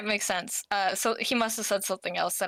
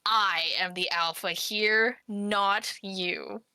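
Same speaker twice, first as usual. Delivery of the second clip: mock tough guy. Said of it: "so he said to me".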